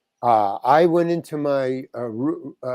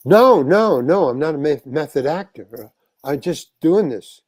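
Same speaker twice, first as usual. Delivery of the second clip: flustered denial; 8 dB louder than usual. Retold or imitated. Acted flustered denial to intimidating star.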